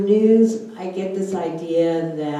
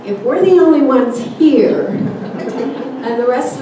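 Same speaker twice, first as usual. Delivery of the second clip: louder, higher, words broken by a laugh; laughing while talking; 7 semitones higher, 8 dB louder than usual. Real, not acted. Childhood question, laughing while asking.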